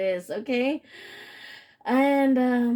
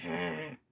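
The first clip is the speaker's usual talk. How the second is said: low, soft mock vampire "ah"; vampire noise; 3 semitones lower, 8 dB quieter than usual. Reader acts out the vampire, mock vampire noise. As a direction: imitate a vampire's sound, kept quiet. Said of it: "You're the vampire. You're the one that go".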